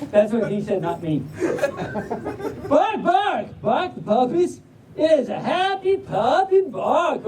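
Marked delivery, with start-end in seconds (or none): 2.7-7.3 higher, lively Southern storybook voice; Southern drawl. Acted. Reader urging the puppies to bark, Southern drawl. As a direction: sing out the barks in Southern drawl. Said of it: "but in a Southern drawl".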